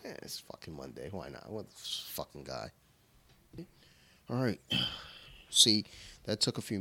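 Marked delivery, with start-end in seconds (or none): 0.1-2.7 low, soft grumble; muttered aside. Real, not acted. Grumbling to his friend about Monday, low and soft. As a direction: mutter it under your breath.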